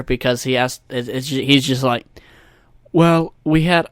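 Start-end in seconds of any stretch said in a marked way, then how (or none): 2.9-3.9 lightly attempted politician voice, raised and louder; a botched impersonation, broken off quickly; Donald Trump. Podcaster faking a recorded call-in answer, botched Trump impression. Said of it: "I can't do a Donald Trump".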